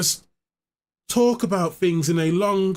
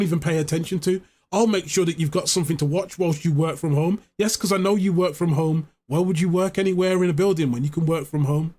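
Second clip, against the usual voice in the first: mock donation pitch; 4 semitones lower than usual. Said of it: "I'll have the little video, like".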